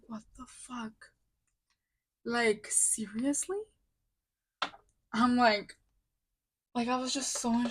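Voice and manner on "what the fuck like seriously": slow, whispered disbelief; slow hushed retold outrage; stunned whisper. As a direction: let the curse out in a slow stunned whisper, then ask it hushed. Retold outrage at coworker's question.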